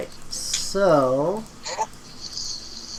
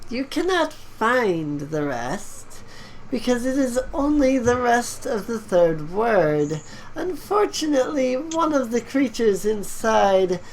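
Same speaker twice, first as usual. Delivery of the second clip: skeleton voice; 5 semitones higher than usual. Acted. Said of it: "the skeleton cackles at you and says".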